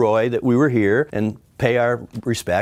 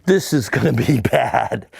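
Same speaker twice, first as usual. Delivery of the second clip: mock horror; slower than usual. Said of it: "in mock horror watching this".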